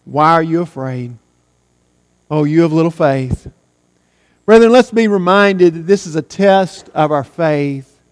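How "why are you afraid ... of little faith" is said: the Lord's gentle rebuke. Retold or imitated. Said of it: "And the Lord says".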